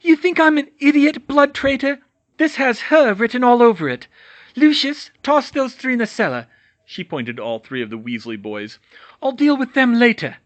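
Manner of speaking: high, loud manic witch voice; raving witch. Acted. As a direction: rant like a madwoman. Bellatrix raging at prisoners.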